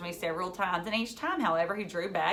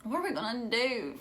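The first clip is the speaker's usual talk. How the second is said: a touch of a wail, higher; understated wail, mild panic; 4 semitones higher than usual. Acted. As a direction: plead in mild despair.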